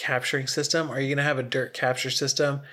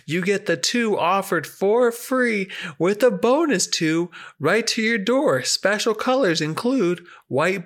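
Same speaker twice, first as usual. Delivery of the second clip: high pitchman voice, slowing at the end; infomercial; 5 semitones higher than usual. Pretend. Mock commercial special offer.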